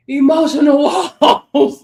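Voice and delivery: cracking up mid-phrase; laughing through it. Real, not acted. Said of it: "trying to get my emotional walls under control".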